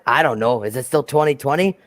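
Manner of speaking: lightly voiced engine character; a hint of a puzzled character voice; Henry. Joking version of the engine's reply, light impression. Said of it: "How's my impression of Henry".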